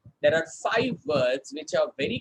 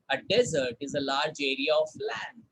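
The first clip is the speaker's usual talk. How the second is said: model sentence repeated; 4 semitones lower than usual. Shown as a demonstration. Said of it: "Sentence देखते हैं".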